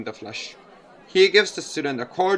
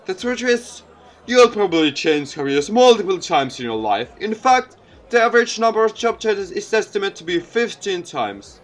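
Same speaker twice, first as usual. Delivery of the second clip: a lightly voiced folksy politician, a bit higher and louder; charming mayor; 5 semitones higher, 4 dB louder than usual. Mayor joking with the student crowd, lightly voiced folksy politician. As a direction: work the crowd with easy jokes.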